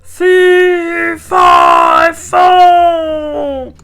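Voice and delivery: falling giant's yell. A narrator's reading. Giant falling from the beanstalk, high loud yell. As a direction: holler it while tumbling down.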